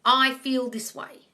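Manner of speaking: slow and calm, each word placed; an unhurried, sincere I feel this way; slow, deliberate. Shown as a demonstration. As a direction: model the line gently and slowly.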